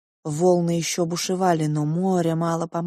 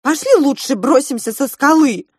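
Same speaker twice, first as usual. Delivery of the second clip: desperate shout; 8 semitones higher, 10 dB louder than usual. Acted. Marinka pulls brother away.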